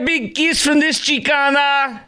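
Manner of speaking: high, hammed-up Latina accent; mock Hispanic accent. Host talks over the clip, promising kisses in high mock Hispanic accent. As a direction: belt out a high fake Mexican accent. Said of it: "her fake Hispanic accent today".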